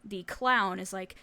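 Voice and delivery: ordinary talk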